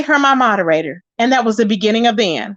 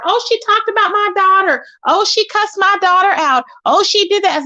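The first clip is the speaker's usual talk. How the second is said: higher, mocking complaint voice; mocking whine; 6 semitones higher than usual. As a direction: parody her whining about her daughter. Mocking Five Babe's complaints.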